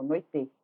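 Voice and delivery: "noite" as noi-TÊ, with a full final vowel; wrong stressed ending. Shown as a demonstration. Teacher repeats the wrong form, "noite" as noi-TÊ. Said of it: "Eu não falo noite".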